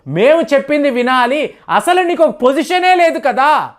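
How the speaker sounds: fast, mock-angry rebuke; a hint of a furious scolding, rushed at the start; Trump scolding. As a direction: lightly imitate a president berating a guest. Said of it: "Donald Trump గారి యొక్క tone అలా మారిపోవడం".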